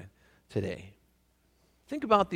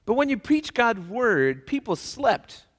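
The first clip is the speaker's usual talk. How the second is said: deadpan punchline; 8 semitones higher, 6 dB louder, slower than usual. Acted. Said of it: "Saint Peter said".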